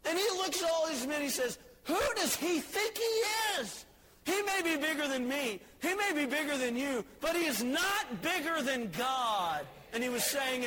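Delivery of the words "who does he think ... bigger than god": defiant shout. Retold or imitated. David tells the men, shouting high and defiant.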